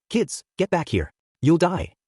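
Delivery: restrained yell of alarm; urgent yell. A narrator's reading. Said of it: "The professional heroes yelled".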